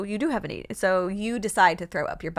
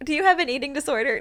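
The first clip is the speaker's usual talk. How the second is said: laughing; 6 semitones higher than usual. Real, not acted. Laughing question.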